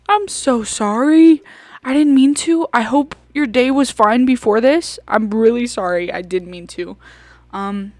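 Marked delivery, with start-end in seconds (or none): 0.1-2.7 laughing apology. Real, not acted. Vlogger laughing as she apologizes to the stranger. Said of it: "laughing apology louder".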